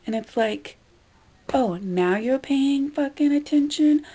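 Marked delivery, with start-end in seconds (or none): 1.5-4.0 higher, drawn-out mock surprise; exasperated, slow sarcasm aimed at the customer; sarcastic retort. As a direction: stretch it out with mocking disbelief. Acted retort to inattentive customer.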